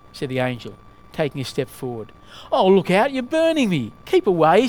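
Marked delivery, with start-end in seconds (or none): 2.5-3.9 higher, louder cry of alarm; startled storybook protest; alarmed ghost. A narrator's reading. Ghost recoils from angel, story reading. 4.0-4.7 loud, brief warning; storybook cry to stay back; alarmed ghost. A narrator's reading. Ghost retreats from angel.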